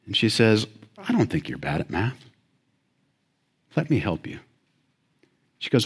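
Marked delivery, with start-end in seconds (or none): 1.0-4.4 soft, lower voice of a gentle teacher; kindly teacher. Retold or imitated. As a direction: reassure a struggling student gently. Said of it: "She was kindly. She was gentle".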